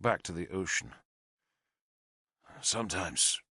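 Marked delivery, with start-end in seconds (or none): 2.6-3.4 bleak. A narrator's reading. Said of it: "he said bleakly".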